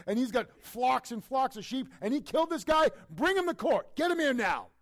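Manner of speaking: rising into a furious roaring shout; a king losing his mind with rage, building to yelling. Acted. Preacher voicing David's rage at the rich man.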